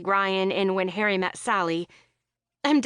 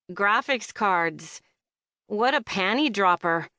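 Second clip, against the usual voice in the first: sarcastic. Acted. Jackie mocking Lizzie's date.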